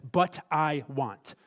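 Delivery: slow, drawn-out wilful quote; sinful heart's wanting. Acted. Preacher voicing the sinful heart within you, slow wilful wanting. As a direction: stretch out each word as a stubborn desire. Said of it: "The sinful heart within you says".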